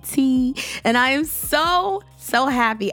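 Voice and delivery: words pushed through a clenched smile; through gritted teeth. Real, not acted. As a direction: talk through your teeth, grinning. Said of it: "I am talking through my teeth".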